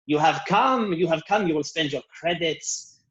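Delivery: a grand, condescending shop-owner sales pitch; Luba's voice. Acted. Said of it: "She goes".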